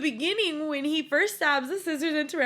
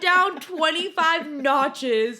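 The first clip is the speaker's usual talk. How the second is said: laughing protest. Real, not acted. Laughing rebuttal to co-host.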